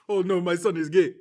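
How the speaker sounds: high, loud cry of dismay; mock horrified parent. Parent discovering news about a son, mock horrified. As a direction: wail it like a scandalized parent, half laughing.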